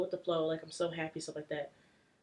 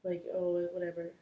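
nonchalant; 3 dB quieter than usual. Retold or imitated. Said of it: "I'm extremely nonchalant".

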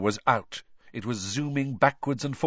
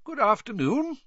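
high, genial greeting; pleasant; 12 semitones higher than usual. A narrator's reading. Dumbledore opens the door to them, pleasantly. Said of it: "he said pleasantly".

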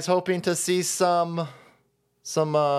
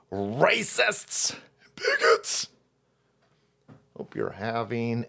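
whisper; 4 semitones lower, slower than usual. Acted. Mock holiday greeting whisper.

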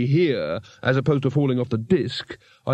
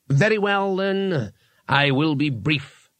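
pompous wizard; 2 semitones higher, slower than usual. A narrator's reading. Wizard annoyed at interruption.

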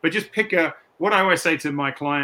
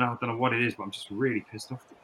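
calm admission; 7 dB quieter, faster than usual. Retold or imitated. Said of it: "talking to your family saying".

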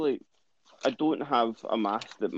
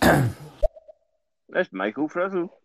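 very slow, louder announcer-style drawl; mock grand introduction, very slow; drawn-out intro; 5 semitones higher, 6 dB louder, much slower than usual. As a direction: stretch the name out like a ring announcer. Introducing the sports correspondent.

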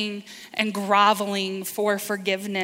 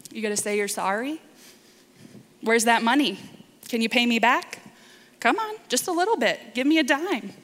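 mock demanding father; faster than usual. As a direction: needle the son for the money like a petty creditor. Father imagined demanding repayment.

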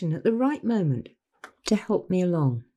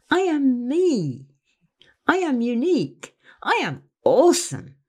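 slow, deliberate affirmations swelling louder at the end; affirmations said aloud. Shown as a demonstration. Leading listeners in self-affirmation, slow and building louder. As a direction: say each one slowly, then lift the last three with conviction. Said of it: "say out loud with me".

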